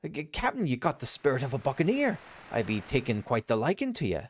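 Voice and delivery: high hearty pirate; hearty high sailor voice. Acted.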